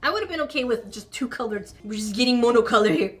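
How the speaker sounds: high, loud, hammed-up indignation over the missing rainbow; comically offended rant at a dull craft kit; mock outrage. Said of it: "I am offended".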